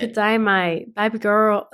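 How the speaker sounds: lightly voiced Australian, drifting Southern; barely Australian mock accent; bad Aussie accent. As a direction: give it a weak go at an Australian accent. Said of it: "it just sounds Southern when you do it".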